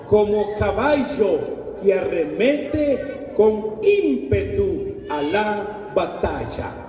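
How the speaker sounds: slow, deliberate Bible reading; scripture reading. Acted. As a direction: read each phrase slowly and gravely.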